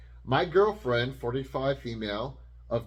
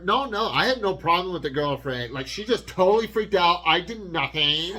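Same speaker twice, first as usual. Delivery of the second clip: lightly voiced rat, raised pitch; rat pleading innocence; 5 semitones higher, 5 dB louder than usual. Rat telling the daughter it did nothing, lightly voiced. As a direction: play a mildly hammed-up talking rat protesting. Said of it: "like the rat is telling her".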